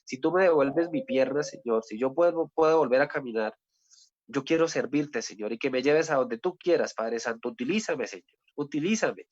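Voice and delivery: mild retold weeping plea; retold tearful prayer. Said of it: "en ese baño llorando le dije".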